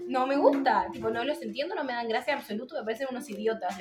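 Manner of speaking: hammed-up parody of a humorless mother; mocking mom. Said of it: "mi madre, tipo".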